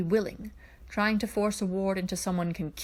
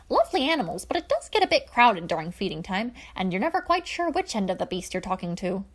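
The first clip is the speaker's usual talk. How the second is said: eccentric Coran voice; 4 dB louder than usual. Acted. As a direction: play it like a jolly, grandiose royal advisor.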